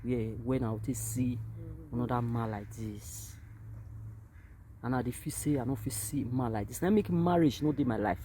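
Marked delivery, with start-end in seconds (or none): 0.0-3.3 retold lament. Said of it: "I say".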